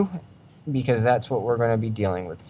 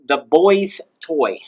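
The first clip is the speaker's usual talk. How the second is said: put-on "boy's" drawn out with the voice raised, then down on "toy"; slow demo, "boy's" pitched up; 3 semitones higher, slower than usual. Shown as a demonstration. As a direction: lift the pitch on "boy's" to show possession. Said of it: "Did you hear my voice go up?".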